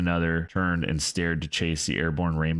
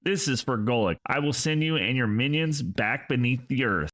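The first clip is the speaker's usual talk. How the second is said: higher, thin vengeful shout; vengeful cry; 7 semitones higher than usual. A narrator's reading. Azura to the ghost king, high vengeful shout. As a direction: avenge a fallen friend.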